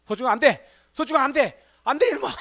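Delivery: mock-stern yell at a naughty puppy; scolding the dog. (강아지를 혼내는 목소리)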